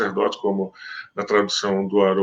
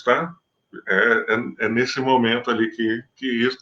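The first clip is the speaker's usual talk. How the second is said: measured, solemn Bible reading; scripture reading. Acted. Preacher reading the Gospel to his listeners, solemn. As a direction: read the passage to the congregation with gravity. Reads John's Gospel aloud.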